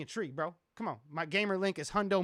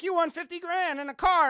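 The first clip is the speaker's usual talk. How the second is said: higher, louder host voice, lightly done; mock host announcement; 11 semitones higher, 8 dB louder than usual. MTV host announcing a huge prize, lightly voiced. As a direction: proclaim the big prize like a TV host. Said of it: "they're like".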